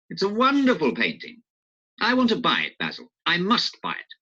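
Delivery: lightly voiced eager Harry; a hint of an eager young lord. Harry wanting to buy the painting, in an eager voice.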